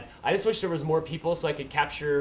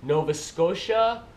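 slow "Nova Scotia", weight on SCOTIA; Canadian accent, draw out "Nova Scotia", leaning on "Scotia"; practising Canadian accent; slower than usual. Shown as a demonstration. Vlogger practising "Nova Scotia", slow Canadian accent. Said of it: "I'll practice".

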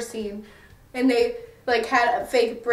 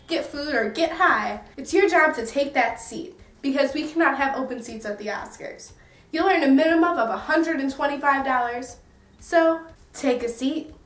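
upbeat ad read, a bit higher; mock commercial voice; 3 semitones higher than usual. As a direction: pitch the job like a cheesy ad. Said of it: "let's cue the commercial".

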